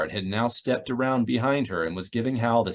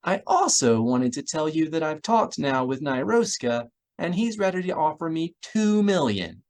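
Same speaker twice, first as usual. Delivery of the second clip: Miranda's voice; 6 semitones higher than usual. Acted. Miranda speaking on comlink.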